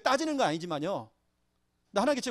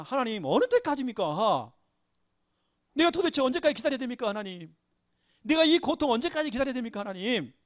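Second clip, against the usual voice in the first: remonstrating; 3 semitones higher than usual. Acted. David arguing with God over his long wait, remonstrating. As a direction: press God with pleading, complaining questions. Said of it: "다윗이 하나님께 막 따진 겁니다".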